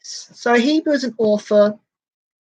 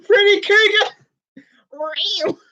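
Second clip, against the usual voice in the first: hammed-up drawn name; 10 semitones higher, much slower than usual. Real, not acted.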